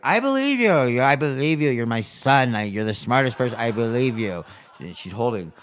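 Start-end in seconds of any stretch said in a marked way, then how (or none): 0.0-4.4 mock doting mother-in-law. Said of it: "she's like".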